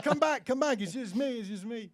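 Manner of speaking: high, comically pleading voice; pleading call-back. Retold or imitated. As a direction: call after frightened children, pitched right up. Calls back the frightened children.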